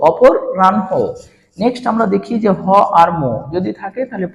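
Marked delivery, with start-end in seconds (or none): 0.1-0.9 অপরাহ্ন with n before h, split for learners; broken-up pronunciation. Shown as a demonstration. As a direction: say অপরাহ্ন in parts, "opor, ran-ho". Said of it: "কি বলবো?".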